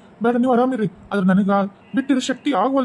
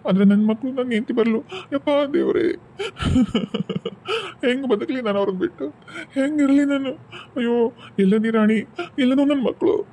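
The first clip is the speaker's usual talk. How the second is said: mourning lament. Acted. Widower mourns wife and children.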